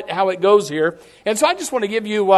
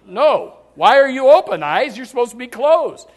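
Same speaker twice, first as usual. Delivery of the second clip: mock scolding; 4 dB louder than usual. Acted scolding of sleepless eyes.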